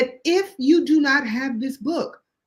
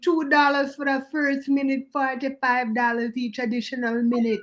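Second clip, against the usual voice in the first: psychic hotline ad. Retold or imitated. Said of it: "what's her name".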